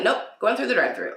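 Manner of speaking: quick, laughing brush-off; laughing answer. Retold or imitated. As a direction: toss it off with a laugh. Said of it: "I'm like".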